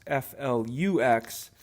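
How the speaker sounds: slow letter-by-letter spelling; spelled out. Real, not acted. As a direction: spell it out slowly for clarity. Spelling out a word misheard as swearing.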